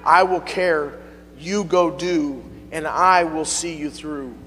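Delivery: slow, reassuring Holy Ghost voice; calm him slowly with a promise; gentle reassurance. Retold or imitated. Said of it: "the Holy Ghost kept prodding me".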